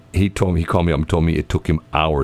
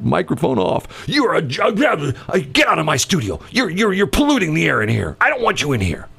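higher pitched grumpy rant; nasty off-air host; 9 semitones higher than usual. Retold or imitated. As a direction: drop the nice act, sneer. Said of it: "I always tell the story".

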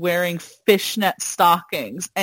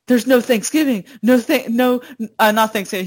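mildly raised, mock-upset kid; upset kid imitation; 2 semitones higher, faster than usual. Kid Ralph's voiceover on the ruined meal, mock upset. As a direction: imitate a kid's upset lament. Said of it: "He's, like, so upset".

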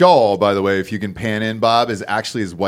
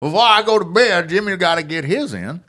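slow, higher Georgia drawl; hammed-up Georgia drawl; 4 semitones higher than usual. Host hamming up Jimmy's line in Georgia drawl. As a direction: stretch it out like a Georgia old man. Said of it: "in a Georgia accent".

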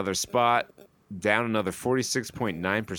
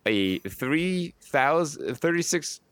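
higher-pitched, incredulous figures; amazed, raised delivery; astonished announcement; 4 semitones higher than usual. Real, not acted. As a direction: hammer home an unbelievable number. Stressing an absurd percentage increase.

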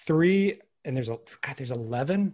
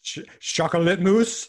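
French accent; 3 semitones higher than usual. Shown as a demonstration. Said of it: "Can I hear that chocolate mousse one more time?".

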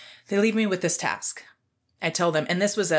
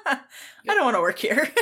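laughing; 7 semitones higher than usual. Real, not acted. Laughing about quitting.

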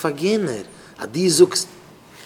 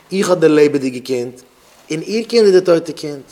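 slow, louder insistent claim; retold cry of claim; 5 dB louder, much slower than usual. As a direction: insist slowly that the living child is yours. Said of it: "die eine Frau geschrien verkehrt".

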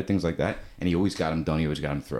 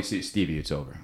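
broken, defeated; 5 semitones lower, 3 dB quieter than usual. Retold or imitated. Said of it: "he was broken".

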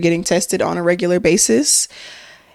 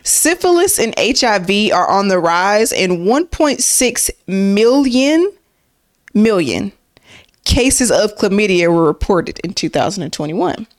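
newscaster voice. Shown as a demonstration. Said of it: "I'm trying to do my newscaster voice".

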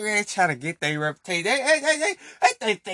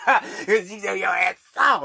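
laughing; 2 semitones higher than usual. Real, not acted. Mocking someone as soft.

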